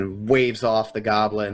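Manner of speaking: ordinary delivery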